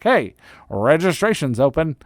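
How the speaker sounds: playful promotional call-out; announcer-style hype. Acted. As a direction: call it out like exciting news. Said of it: "gonna say it like that".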